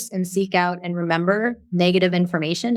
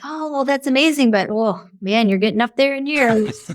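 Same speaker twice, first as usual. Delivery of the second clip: joy thief jab; 4 semitones higher than usual. Retold or imitated. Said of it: "active destructive responding".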